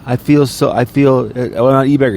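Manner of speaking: high, put-on whimper of a streamer pleading he's no beggar; mock whiny beggar. Podcaster mocking a streamer who claims he isn't begging, mock whine. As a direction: whine it like a sorry-for-himself beggar.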